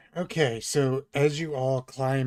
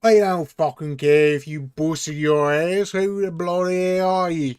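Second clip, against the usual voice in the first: loud, higher British guard snapping; angry guard; 5 semitones higher, 9 dB louder than usual. Acted. Guard shouting at the intruders, loud and angry. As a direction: snap at them like an annoyed guard. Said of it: "they say".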